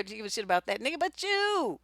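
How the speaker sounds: ordinary talk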